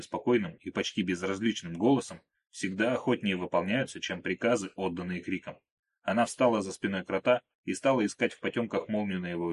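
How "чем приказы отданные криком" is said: usual speaking voice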